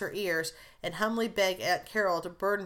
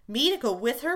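eager burst, higher and louder; 5 semitones higher, 5 dB louder than usual. A narrator's reading. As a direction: blurt it out in sudden hope. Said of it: "burst Jo".

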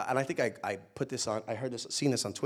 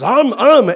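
loud, high "um, um"; imitated baby hungry grunts; 13 semitones higher, 21 dB louder than usual. Baby who wants to eat, imitated hungry grunts. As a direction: mimic a baby asking for food. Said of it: "when he wants to eat".

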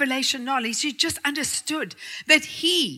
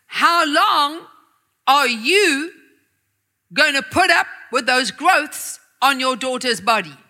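voice of God. Acted. God questioning the father, strong and firm. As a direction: speak as a commanding God. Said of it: "strong, deep male voice".

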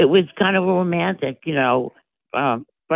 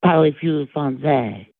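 put-on French accent; slower than usual. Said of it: "Imitate it".

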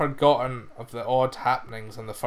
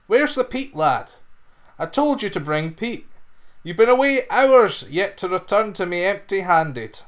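scolding master; 5 semitones higher than usual. Acted. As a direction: berate the lad for coming back empty-handed. Master scolds lad for empty cart.

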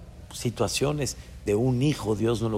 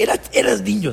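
mother soothing; 9 semitones higher, 4 dB louder, faster than usual. Retold or imitated.

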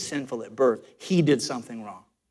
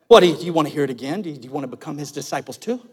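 Godfather; much faster than usual. Acted. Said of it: "he gets real Godfather on him".

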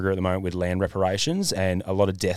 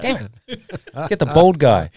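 high, mocking robber voice; a gleeful pretend robber; imagined robbers choosing a target, mocking and high; 6 semitones higher, 4 dB louder than usual.

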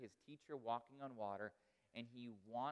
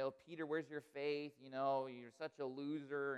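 condescending; 3 dB louder than usual. Retold or imitated. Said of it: "say it kind of in a condescending way".

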